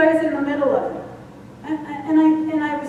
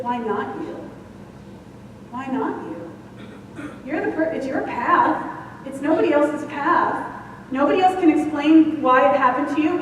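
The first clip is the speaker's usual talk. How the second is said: calm inner voice. Retold or imitated. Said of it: "as if I heard a voice".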